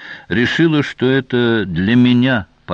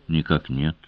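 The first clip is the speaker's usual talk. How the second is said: low, soft and unruffled; composed, quiet denial; calm reply; 5 semitones lower, 5 dB quieter than usual. A narrator's reading. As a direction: answer calmly, without raising the voice. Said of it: "спокойно ответил невидимый охранитель".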